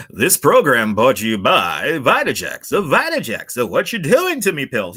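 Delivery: hammed-up zany commercial read; wacky sponsor spot for Vitajex. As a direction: go cartoonish on the product. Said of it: "That's a wacky one".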